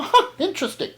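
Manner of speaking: high, laughing "interesting"; amused reply. Retold or imitated. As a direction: chuckle through it. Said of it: "I go".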